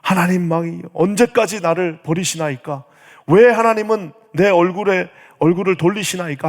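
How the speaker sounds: complaining lament. Acted. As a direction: act out a mild, pressing complaint in prayer. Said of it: "불평합니다". (하나님께 따지듯 불평하는 탄원)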